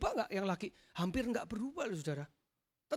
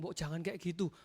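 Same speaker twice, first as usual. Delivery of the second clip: mild-mannered wife; 5 semitones lower, 4 dB quieter than usual. Retold or imitated. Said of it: "Padahal saya lebih kasar dari dia".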